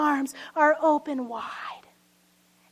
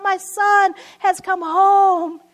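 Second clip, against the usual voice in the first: raised, slow cry of a father; joyful cry out; 4 semitones higher, 6 dB louder, slower than usual. Acted. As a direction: cry it out slowly, higher and louder. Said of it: "he starts to cry out".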